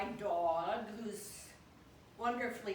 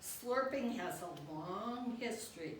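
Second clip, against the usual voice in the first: lively poem recital, phrase by phrase; poetry reading. Acted. Poet to the guide dog about slurping, animated poetry reading. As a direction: recite it as verse addressed to the dog.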